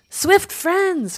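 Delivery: high, loud crow call; cawing crow. A narrator's reading. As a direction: caw it out to hail a flock. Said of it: "cawed Crow".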